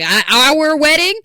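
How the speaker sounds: mock disbelief, like he can't believe it; imitating shocked fiancé. Fiancé asked to bounce their own wedding, startled high squeak. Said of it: "He's like".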